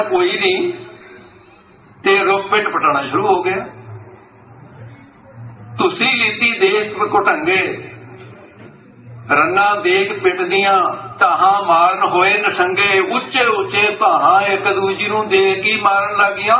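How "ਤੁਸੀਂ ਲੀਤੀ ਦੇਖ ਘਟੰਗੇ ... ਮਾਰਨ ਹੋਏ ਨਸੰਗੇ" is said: slow, measured recitation of a scripture verse; reciting verse. Shown as a demonstration. Preacher quoting Bhai Gurdas to the congregation, slow recitation. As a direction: intone the couplet slowly.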